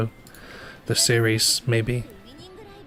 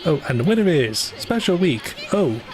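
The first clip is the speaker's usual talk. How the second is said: higher, sing-song announcer imitation; mock race announcer; 5 semitones higher than usual. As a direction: mimic the stilted race commentator. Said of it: "It just is like".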